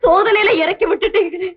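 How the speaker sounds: tearful, wounded protest; anguished reproach. Acted. Poorna accuses the doctor of deceiving her, anguished and tearful. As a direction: cry out at being betrayed.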